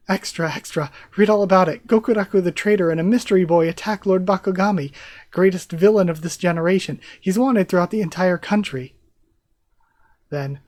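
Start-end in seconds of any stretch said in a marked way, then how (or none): 0.1-8.9 loud, fast paper-seller calling out headlines; newsboy cry. Acted. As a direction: hawk the news to the street.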